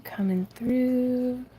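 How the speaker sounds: slow breathy whispered aside. Real, not acted. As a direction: whisper it slowly as you squeeze past. Quiet aside while moving.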